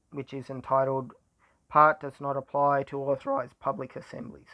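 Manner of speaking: tired voice, going squeaky. Real, not acted. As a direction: voice cracking thin after a long day. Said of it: "my voice is going squeaky".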